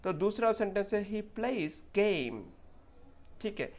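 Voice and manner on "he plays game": very slow, stretched glide in "plays" and "game"; clear "ei" sound. Shown as a demonstration. Teacher reading an example, slow clear ei in "game". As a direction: draw out the vowel of "game". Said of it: "इसमें definitely ए sound".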